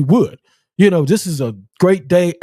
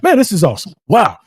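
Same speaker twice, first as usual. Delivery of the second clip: high, admiring excitement; excited; 9 semitones higher, faster than usual. Real, not acted. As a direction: gush over it, pitched up. Host admires the ring.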